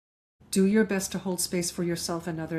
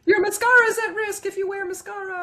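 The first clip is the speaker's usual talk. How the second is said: laughing; 13 semitones higher, 6 dB louder than usual. Real, not acted. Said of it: "laughing through tears".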